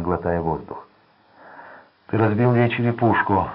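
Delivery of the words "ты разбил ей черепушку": Giz answers roughly, pitched up; a coarse, curt gangster line; rough reply. A narrator's reading. Гиз грубо бросает Эдди, что тот разбил ей череп. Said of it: "грубо ответил Гиз".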